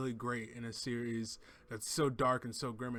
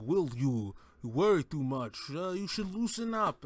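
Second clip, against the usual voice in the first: second try at Mikkelsen; 3 semitones higher than usual. Retold or imitated. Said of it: "I can't do an impersonation of Mads Mikkelsen's accent".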